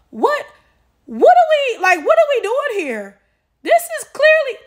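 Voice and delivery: high, loud incredulous squeal; exasperated disbelief. Real, not acted. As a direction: cry out in stunned disbelief. Outraged disbelief at her comment.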